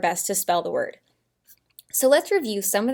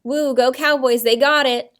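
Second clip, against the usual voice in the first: louder, mock-excited fan reporting a score; excited cheer; 2 semitones higher, 8 dB louder than usual. Teacher playing a Cowboys fan to her class, excited cheer. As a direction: cheer on the team, keeping it vague. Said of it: "and just say".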